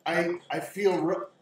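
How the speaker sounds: high, halting confession; pleading young woman. Acted. Game master voices Irina resisting.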